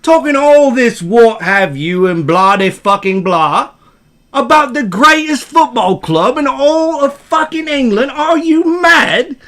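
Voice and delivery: outraged British fan, rising high; British accent. Acted. Football fan berating a doubter, outraged British accent. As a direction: build to high British disbelief. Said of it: "I wanna hear some British accent".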